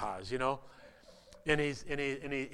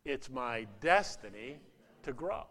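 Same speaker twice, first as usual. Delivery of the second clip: congregation recital; 2 semitones lower, 3 dB quieter than usual. Shown as a demonstration.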